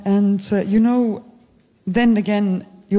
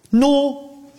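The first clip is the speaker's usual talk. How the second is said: called out no; 6 semitones higher than usual. Shown as a demonstration. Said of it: "then you will say".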